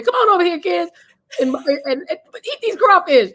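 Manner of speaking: put-on high, loud hearty call to the kids; booming father voice. Father calling the kids over to eat crawfish, hearty and loud.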